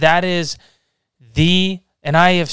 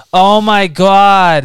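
delighted; 6 semitones higher, 8 dB louder, much slower than usual. Real, not acted. Reacts to the accent quote.

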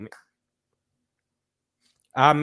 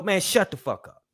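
mock guard's rebuke, pitched higher; guard cutting him off; 6 semitones higher than usual. Guard silencing a prisoner's question, imitated rebuke. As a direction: imitate a guard shutting someone down. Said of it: "this how you get talked to".

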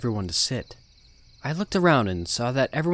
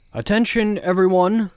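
loud call; 8 semitones higher, 7 dB louder than usual. Acted. Calling the crowd to order.

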